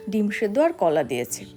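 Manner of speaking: ordinary talk, nothing marked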